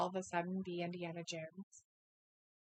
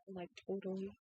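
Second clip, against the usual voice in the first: put-on valley girl; 2 semitones lower, 9 dB quieter than usual. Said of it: "a pretty good Valley Girl impersonation".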